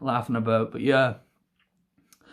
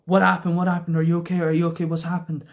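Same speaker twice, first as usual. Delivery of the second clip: rapid repeated questions, slightly raised voice; mildly panicked dad; 3 semitones higher, faster than usual. Retold or imitated. Dad running over to fallen son, mock panic. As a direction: imitate a worried parent firing questions.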